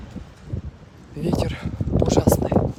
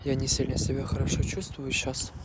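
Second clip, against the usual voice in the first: tired; 2 semitones lower, 6 dB quieter than usual. Real, not acted. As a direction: speak quietly, drained and unwell. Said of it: "Я просто немного уставший". (усталый, вялый голос)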